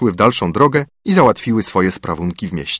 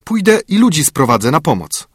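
put-on girl offering; 6 semitones higher than usual. A narrator's reading. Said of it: "rzekła Różanka".

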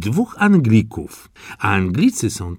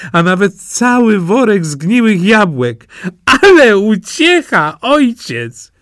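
high, lively wife's voice; wife gloating to her husband, in a high voice; gleeful wife; 10 semitones higher than usual. Acted. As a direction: relish the neighbour's comeuppance. Wife tells her story.

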